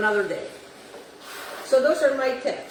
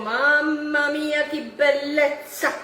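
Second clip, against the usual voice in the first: Italian exclamation; 2 semitones higher, slower than usual. Real, not acted. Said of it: "Why did I say in Italian?".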